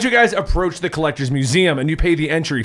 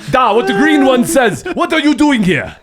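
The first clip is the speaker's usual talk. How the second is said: Russian Cosmo; 4 semitones higher than usual. Acted. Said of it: "Cosmo has the accent".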